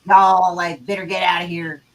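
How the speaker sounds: attempted West Texas accent. Shown as a demonstration. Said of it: "you gotta do the West Texas accent".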